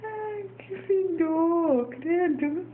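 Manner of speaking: slow, disgusted groan at the stink; smelling something awful. Real, not acted. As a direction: drag it out, wincing at the smell. Reage ao fedor do bebê. (devagar, com nojo do cheiro)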